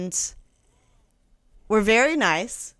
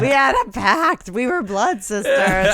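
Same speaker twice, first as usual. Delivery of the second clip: mock betrayal; 3 semitones higher than usual. Mock betrayal by her customer.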